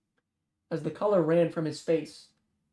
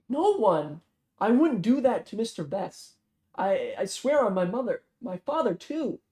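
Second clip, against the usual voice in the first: desperate pleading; 4 semitones higher than usual. Acted. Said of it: "Zion pleaded".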